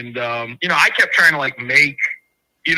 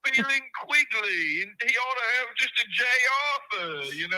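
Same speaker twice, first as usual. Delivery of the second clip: mock British accent; faster than usual. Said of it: "I'm British".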